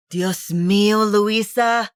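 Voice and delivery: exasperated. Acted. Exasperated sister.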